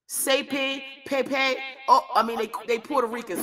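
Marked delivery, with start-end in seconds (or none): 0.1-1.6 mock Spanish-speaking letters, pitched up; Spanish pronunciation. Calling for child services, in mock Spanish. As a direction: slip into higher-pitched Spanish. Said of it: "why I started speaking Spanish".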